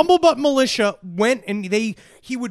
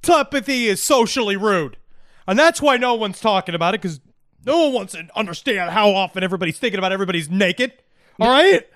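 ranting defendant; 3 dB louder than usual. Acted. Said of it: "he said on the stand".

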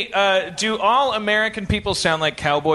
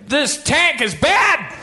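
tank man; 4 semitones higher, much slower than usual. Retold or imitated. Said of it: "I'm gonna do the other guy".

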